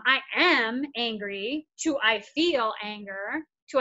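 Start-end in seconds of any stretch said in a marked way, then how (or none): 0.0-1.7 slow stepwise demo. Shown as a demonstration. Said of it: "imagine moving from". 2.0-3.4 slow stepwise demo. Shown as a demonstration. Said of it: "imagine moving from".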